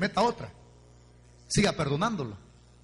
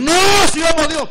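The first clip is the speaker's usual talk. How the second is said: mock pious claim; 9 semitones higher, 13 dB louder than usual. Mocks hypocrites' claim.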